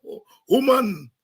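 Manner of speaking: normal talking voice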